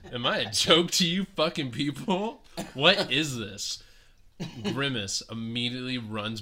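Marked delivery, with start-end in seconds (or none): 0.1-3.8 upset rant. Retold or imitated. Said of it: "He is so upset".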